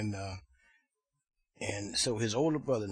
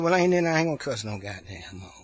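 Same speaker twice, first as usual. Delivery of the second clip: singsong nephew; 7 dB louder than usual. Retold or imitated. Nephew promising his aunt, loud mock singsong. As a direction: play the boy earnestly promising in singsong. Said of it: "they all talk like they singing".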